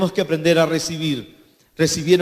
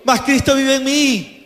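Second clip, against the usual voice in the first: proclaiming; 7 semitones higher, 4 dB louder than usual. Acted. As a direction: declare it for all to repeat. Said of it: "Digan conmigo".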